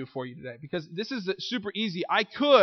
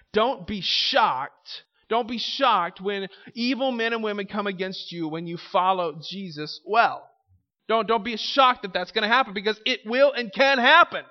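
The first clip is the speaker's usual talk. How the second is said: earnest exhortation; 2 semitones higher, 4 dB louder than usual. Acted. Pastoral exhortation.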